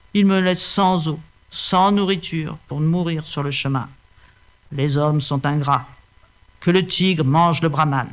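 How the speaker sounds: a hint of a tired old buffalo; lightly voiced old buffalo; old buffalo, a little low and weary. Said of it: "d'une voix basse".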